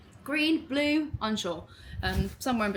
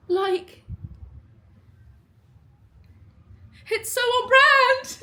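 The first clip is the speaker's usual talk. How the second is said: very high, loud and slow; thrilled squeal; 9 dB louder, much slower than usual. Real, not acted. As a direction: gush it out in a squeal. Overwhelmed unboxing.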